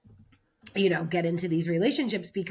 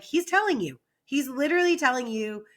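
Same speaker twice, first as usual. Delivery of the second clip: higher-pitched, exasperated retold protest; upset insistence; 6 semitones higher than usual. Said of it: "I was a little upset".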